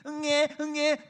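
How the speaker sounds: high-pitched storybook wailing; put-on infant wah-wah; mock newborn baby cry. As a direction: imitate a baby's first cries. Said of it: "뭐 이렇게 읽어준단 말이에요".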